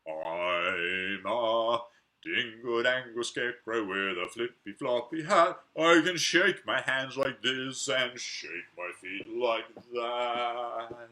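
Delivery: a playful scarecrow shout; loud scarecrow shout. Acted. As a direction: call out like the scarecrow jumping up. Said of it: "shouted very loud".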